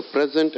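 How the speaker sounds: "present" as a noun, PRE-sent; first-syllable stress. Shown as a demonstration. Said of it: "they are pronounced differently".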